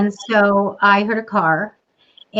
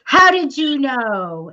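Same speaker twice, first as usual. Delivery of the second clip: higher, drawn-out retold yell; mild mock yell; 4 semitones higher, much slower than usual. Big guy at the door turns back to the psychic, mild mock yell. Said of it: "and he yells".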